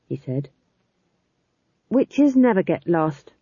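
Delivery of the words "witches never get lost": firm. Acted. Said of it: "said Magrat firmly".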